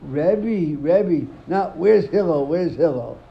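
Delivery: hammed-up nagging call; mock call. Teacher retelling the man calling Hillel, mock loud. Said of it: "if you want to, you say".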